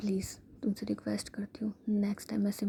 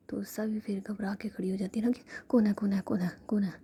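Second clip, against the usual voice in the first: plain reading voice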